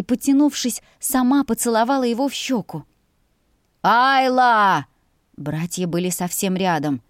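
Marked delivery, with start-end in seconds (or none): 3.8-4.9 loud shout of her name; loud call. A narrator's reading. Brother shouting for his sister nearby, loud call. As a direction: call her sharply to heel.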